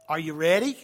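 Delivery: pumped, rousing call to the room; rally the crowd, ready?; hyped-up call. Real, not acted. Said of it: "asks twice, louder second".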